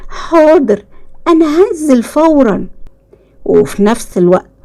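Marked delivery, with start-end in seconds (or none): 0.1-2.7 high-pitched, keen agreement; eager child. A narrator's reading. Boy agreeing to get into the pool, eager. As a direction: agree brightly and at once.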